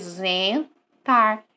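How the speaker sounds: "Zentar" com o EN nasalizado, zẽ-tar; som nasal. Shown as a demonstration. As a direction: jogue o EN de "Zentar" para o nariz. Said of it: "jogando o som pro nariz". ("Zentar" silabado, com zen nasal)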